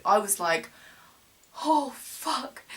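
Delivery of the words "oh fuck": higher-pitched, hushed dread; mock meltdown, pitched up; retold panic. Stuck on the hillside in meltdown mode, retold panic. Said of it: "I was, like, meltdown mode".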